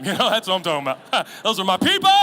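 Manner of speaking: loud laughter through the words; preacher cracking up at his own joke; laughing. Real, not acted. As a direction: laugh hard while talking.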